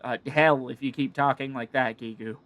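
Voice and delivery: lightly voiced sleepy, grumbling kobold; cranky little creature wanting its nap; a hint of a grumpy kobold.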